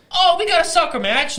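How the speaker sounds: high, loud London accent attempt; badly faked London accent sliding into Irish. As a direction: put on a hammed-up London accent. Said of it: "what was London is like".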